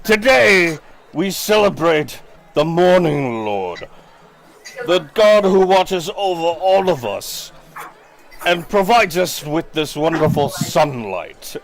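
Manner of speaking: high, proclaiming festival mayor; mayor's sermon. Acted. Mayor Vargas praising the Morning Lord to townsfolk, proclaiming.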